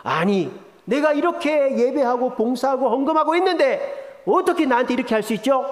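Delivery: acted affront, rushing at the end; angry protest. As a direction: protest as if cheated by God. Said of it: "주님 앞에 화가 나는 거죠".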